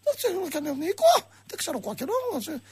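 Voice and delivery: high-pitched put-on Russian-Pontic voice; squeaky, rising Russian-Pontic impression; Russian-Pontic accent. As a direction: caricature a puzzled Russian-Pontic Greek on the line. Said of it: "απ' την άλλη γραμμή ο Ρωσοπόντιος αρχίζει".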